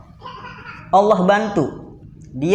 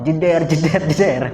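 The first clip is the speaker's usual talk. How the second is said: imitated explosions. Imitates barrage of wife's scolding.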